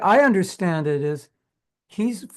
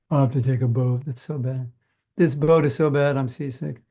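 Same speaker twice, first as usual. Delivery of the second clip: low, sulky put-on moan; mock whining; 4 semitones lower than usual. A teacher mimicking listeners who complain about the boat, mock whine. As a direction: grumble like a seasick passenger, half-joking. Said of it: "Prabhupada wasn't talking like that".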